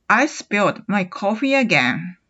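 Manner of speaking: very slow, rising at the end; a slow, dismayed model line; with feeling. Shown as a demonstration. Teacher models a coffee mishap with feeling. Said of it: "ちょっと感情表現を込めて言うと".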